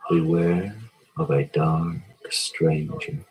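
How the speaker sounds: lightly imitating a spooky fortune teller; low, slow mock warning. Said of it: "she said there was danger".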